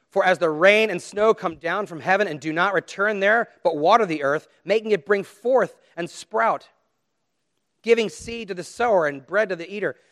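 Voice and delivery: forceful recited verse; scripture declamation. Acted. Preacher telling why to cling to sermons, declaiming scripture. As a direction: proclaim it phrase by phrase.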